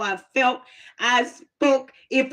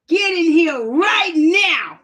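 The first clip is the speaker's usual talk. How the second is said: slow, louder stern grandma; old folks' scolding; 4 semitones higher, 4 dB louder, slower than usual. Retold or imitated. Grandma ordering the girl indoors, slow and stern. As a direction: stretch each word like old folks do. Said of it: "You know the old folks, how they talk".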